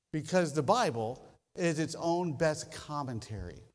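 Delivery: ordinary delivery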